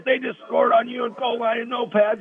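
high-pitched mock coach tirade; retold yelling. Coach going ballistic on his defense, high mock yelling. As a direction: imitate a coach screaming at his players, pitch way up. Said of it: "he's yelling and screaming at him".

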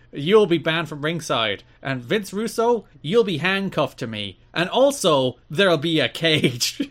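mock promo yell. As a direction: yell it out like a crazed wrestling boss. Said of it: "He's like".

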